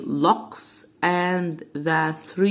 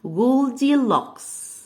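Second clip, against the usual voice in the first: whisper; 5 semitones higher, slower than usual. Pretend. Girl hiding, teacher whispers.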